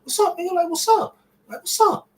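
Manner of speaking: very high, loud frantic demand; near-shouting in panic on the phone; amped, frantic. Retold or imitated. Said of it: "So I'm getting amped".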